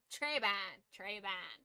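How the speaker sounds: Treban said through the nose, nasal twang; mock nasal Treban. Shown as a demonstration. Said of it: "Just really nasally".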